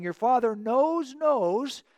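"knows, knows" drawn out slowly, both stressed; repeated for emphasis. Retold or imitated. David insists to Jonathan, emphatic doubled "knows". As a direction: lean firmly on each "knows". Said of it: "Hebrew will repeat a word for emphasis".

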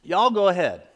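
imitating a Southern mom's accent. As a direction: do a Southern mom addressing her family. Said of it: "a good Southern accent".

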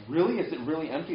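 high-pitched incredulous question; disbelieving. Acted. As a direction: ask it in mild astonishment. Disciples react to empty tomb report.

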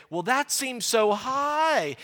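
lightly voiced taxpayer whining; mock complaint. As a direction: plead slowly at the unfair price. Victim complaining about tax.

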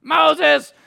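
high, loud whiny call; mock whining. Israelites calling on Moses like whining kids, mock whining. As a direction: holler like a complaining kid, hammed-up. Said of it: "they're the, the whining".

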